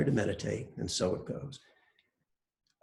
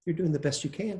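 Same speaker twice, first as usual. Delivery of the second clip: lighter, accepting "You're doing the best you can"; good-news version; 5 semitones higher than usual. Shown as a demonstration. Teacher shows students the good-news way, accepting. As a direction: offer it as welcome good news. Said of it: "The good news".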